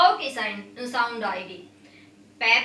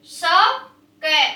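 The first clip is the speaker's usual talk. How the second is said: चौके drawn out very slowly and a bit louder; slow sounding out; 5 dB louder, much slower than usual. Shown as a demonstration. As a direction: stretch चौके syllable by syllable for kids. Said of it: "आप भी बेटा साथ साथ बोलेंगे".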